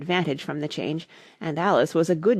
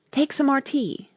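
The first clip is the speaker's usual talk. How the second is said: earnest; 8 semitones higher than usual. Acted. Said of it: "very earnestly".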